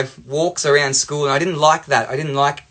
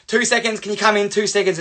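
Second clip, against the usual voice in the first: higher, insistent little plea; calling over; 6 semitones higher than usual. Retold or imitated. Dad asking passing teacher to come in, insistent. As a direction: re-enact coaxing someone inside.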